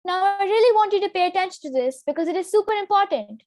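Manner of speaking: high, quick, not serious; high pitch. Shown as a demonstration. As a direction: rush it up high, a bit flippant. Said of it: "With a high pitch, the sentence sounds like".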